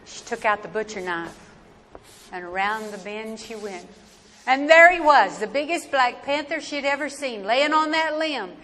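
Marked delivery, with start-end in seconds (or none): 4.4-8.6 louder, tense storytelling climax; dramatic build. A narrator's reading. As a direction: build the shock of the sighting. Climax of panther encounter.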